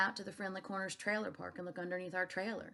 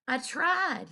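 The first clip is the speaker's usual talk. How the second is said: anguished; 6 semitones higher, 8 dB louder than usual. A narrator's reading. Repeated emotional line.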